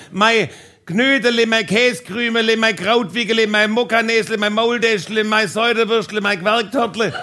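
lightly called string of food endearments; mock calling out. Couple switching to culinary pet names, mock calling out. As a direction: reel off pet names in a held-up call. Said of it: "haben wir uns Kosenamen zugeschrien".

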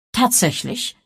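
high, surprised question; surprised exclamation. A narrator's reading. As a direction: exclaim it in mild astonishment. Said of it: "rief Miss Marple". (erstaunt ausgerufen, hoch)

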